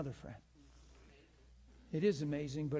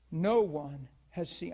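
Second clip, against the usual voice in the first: slow loud proclamation; 7 dB louder, slower than usual. Acted. Preacher's slow loud opening line.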